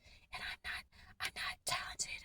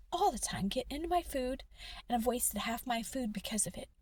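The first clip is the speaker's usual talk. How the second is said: louder voiced complaint; frustrated; 7 dB louder than usual. Real, not acted. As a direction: break out of the whisper, annoyed. Complaining about bugs in food.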